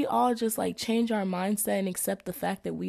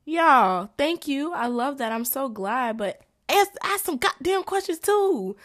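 much higher and louder, urging; emphatic plea; 7 semitones higher, 5 dB louder than usual. Real, not acted. To classmates who stay silent, a high emphatic plea. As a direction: beg them to speak up.

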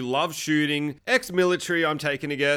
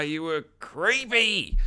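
mock appalled; much slower than usual. Narrator mock-reacts to creepy villain.

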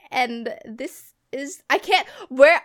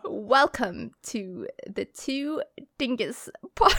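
mock British accent; 3 semitones higher, slower than usual. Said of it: "do your British accent".

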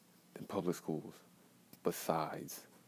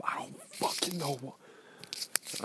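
breaking voice; 7 semitones higher, much slower than usual. Real, not acted. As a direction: voice cracking higher, slow. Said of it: "I'm holding back tears right now".

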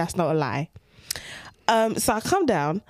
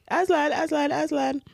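higher, hushed search call; high, coaxing cat call; 7 semitones higher than usual. Retold or imitated.

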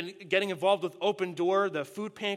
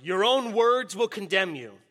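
roaring tyrant king; 4 dB louder than usual. Acted. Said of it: "the king roared".

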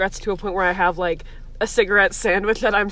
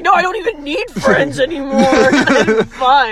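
mock defiant voice; 4 semitones higher, 7 dB louder than usual.

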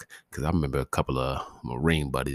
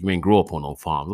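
grandfather; 2 semitones higher, 7 dB louder than usual. Retold or imitated. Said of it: "As my grandfather would say".

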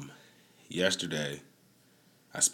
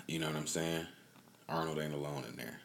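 conspiratorial whisper; 2 semitones lower, 8 dB quieter than usual. Real, not acted. Confiding about spiked drink.

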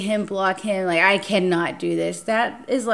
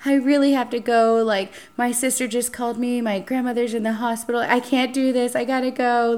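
fake distraught; 4 semitones higher than usual. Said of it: "I act so distraught".

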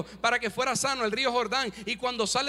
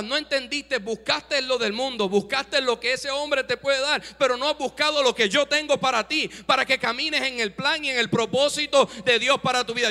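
preaching rebuke; 5 dB louder than usual. Acted. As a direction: preach it harder with each line. (predicación cada vez más fuerte)

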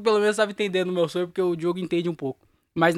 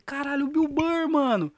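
retold amazement; 7 semitones higher, slower than usual. Retelling his thrilled dream reaction.

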